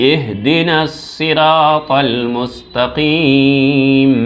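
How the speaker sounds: slow, drawn-out recitation; slow melodic tilawat. Shown as a demonstration. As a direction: chant the verse slowly. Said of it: "উচ্চারণ করুন আমার সঙ্গে".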